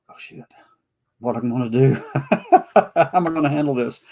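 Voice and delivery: amused, replayed dread breaking into laughter; laughing mock panic. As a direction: laugh through a retold inner panic. Acting out inner panic while laughing.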